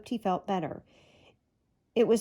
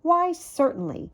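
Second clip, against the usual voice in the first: cheerful squirrel; 7 semitones higher, 4 dB louder than usual. A narrator's reading. Goody answers.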